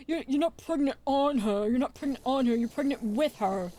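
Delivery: irritated stepdad correcting, mildly heated; mock exasperated. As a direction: imitate an exasperated correction, hitting the words. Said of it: "He gets so mad".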